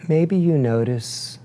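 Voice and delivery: unhurried meditation guide, long pauses between phrases; guided meditation. Acted. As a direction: guide them gently into breath awareness, leaving space after each phrase. Leads a breathing meditation.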